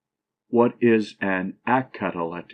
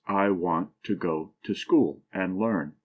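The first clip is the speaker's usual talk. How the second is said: "I want to go to school and learn" stressed on want, go, school, learn; iambic stress; 3 semitones lower than usual. Shown as a demonstration. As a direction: lean on every second word, want, GO, school, LEARN. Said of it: "first syllable unaccented and the second accented".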